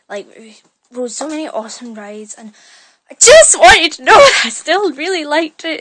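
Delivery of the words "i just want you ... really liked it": louder, laughing reassurance; laughing plea. Real, not acted. Telling viewers she still liked Disneyland, louder and laughing.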